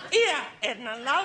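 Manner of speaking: lightly put-on Cockney Queen; chummy mock-Cockney; slight Cockney. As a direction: address her familiarly with a hint of Cockney. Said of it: "she has a very slight Cockney accent".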